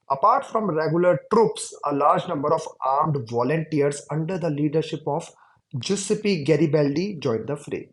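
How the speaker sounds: slow, deliberate reading aloud; textbook reading. Shown as a demonstration. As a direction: read each word out slowly for the class. Reads textbook passage aloud. (धीमे-धीमे किताब से पढ़कर सुनाना)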